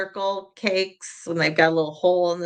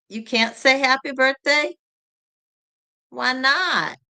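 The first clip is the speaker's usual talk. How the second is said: ordinary talk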